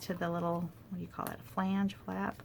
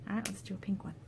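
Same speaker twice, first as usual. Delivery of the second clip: voiceless murmur, much softer; whispered aside; 5 dB quieter, faster than usual. Real, not acted. Crafter choosing the next colour, whispered aside. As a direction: mumble the choice to yourself.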